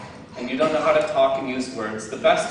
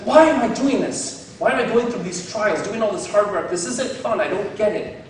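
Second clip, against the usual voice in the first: put-on frustrated kid; 4 semitones higher than usual. Preacher voicing the Karate Kid student, mildly whiny. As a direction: complain like a kid stuck doing chores. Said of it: "it's like".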